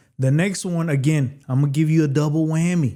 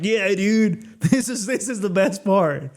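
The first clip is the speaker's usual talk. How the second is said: imitating excited pilots, laughing, higher; 5 semitones higher than usual. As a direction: play the joyful pilot, laughing through it. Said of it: "They're just like".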